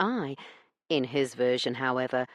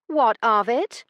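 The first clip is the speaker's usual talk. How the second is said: curt challenge; 8 semitones higher, 6 dB louder than usual. A narrator's reading. Heroine wary challenge.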